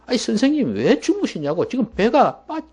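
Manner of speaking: high-pitched agitated protest; frantic disciples. Acted. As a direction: play disciples clamoring at their teacher. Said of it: "막 그렇게 야단법석이었습니다".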